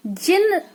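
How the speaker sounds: जिन stretched slowly; slow demo word. Shown as a demonstration. Teacher introducing chandrabindu words, slow careful जिन. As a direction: draw जिन out clearly. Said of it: "चंद्र बिंदु होती है".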